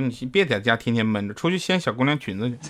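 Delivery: normal talking voice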